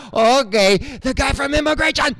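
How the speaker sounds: high, mock alarmed staff whispering; lightly voiced staff, spooked. Staff spotting the comedian, mock alarm. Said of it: "And they're like".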